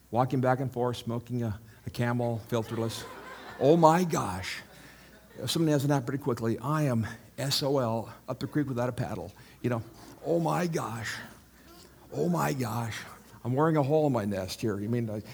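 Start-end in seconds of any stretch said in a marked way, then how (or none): 3.6-9.3 worried bird. Acted. Preacher acts a worried bird pacing its nest, mock panic. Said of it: "that's a worried bird". 10.3-14.8 fretful mock-panic, a little higher; worried bird. Preacher acts a worried bird pacing its nest, mock panic. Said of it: "that's a worried bird".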